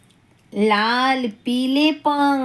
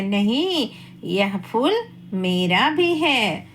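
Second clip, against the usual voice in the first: lovingly; 4 semitones lower than usual. Acted. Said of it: "तितली बहुत ही प्यार से बोलती है".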